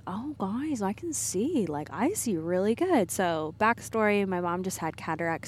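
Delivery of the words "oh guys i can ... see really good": put-on Southern accent. Daughter imitating her mom's delight at the glasses, Southern accent. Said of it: "She has a very thick Southern accent".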